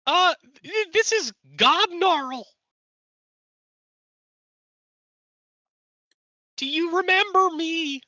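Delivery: goblin voice. Acted. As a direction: speak as a grand goblin storm caller. Plays goblin Gobnarl telepathically.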